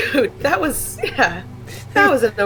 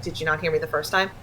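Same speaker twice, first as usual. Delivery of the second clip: impatient snap; 3 semitones lower, faster than usual. Retold or imitated. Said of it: "instead of just being like".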